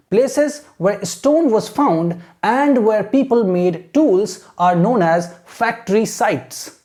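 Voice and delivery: slow, measured read-aloud; model textbook reading. Shown as a demonstration. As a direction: read slowly phrase by phrase for students to copy. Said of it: "This is how you have to read". (धीरे-धीरे आदर्श पाठ-वाचन)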